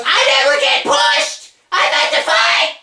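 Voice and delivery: very high, drawn-out cartoon yell; mock whining shout. Mimicking Ziggler answering the open challenge, high complaining shout. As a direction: wail each demand slowly and loudly. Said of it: "He comes out and he goes".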